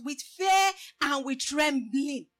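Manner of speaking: slow, loud proclaiming; slow it down and proclaim each word; emphatic shout. Real, not acted. Preacher answering his question, slow emphatic shout.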